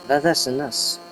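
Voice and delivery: a hint of Starfire's odd phrasing. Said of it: "It's like Starfire from Teen Titans when she goes".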